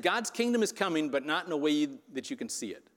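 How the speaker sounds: weight on "kingdom" and "see it"; stress on kingdom. Shown as a demonstration. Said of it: "if we emphasize different words in that sentence".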